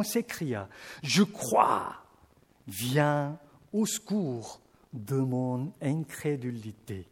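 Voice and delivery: measured, solemn Bible reading; scripture reading. Acted. Preacher reads the Gospel to the congregation, solemnly. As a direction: read the passage like a lector.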